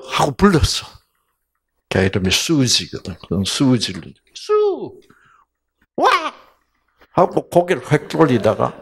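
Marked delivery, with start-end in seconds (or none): 4.3-6.1 high startled "수! 와!"; a child snapping round at her name; startled reply. Retold or imitated. Daughter startled when her sister calls.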